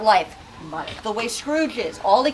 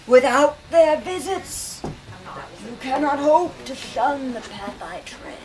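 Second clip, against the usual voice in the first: ghost's warning. Acted. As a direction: warn him gravely. Ghost warns Scrooge.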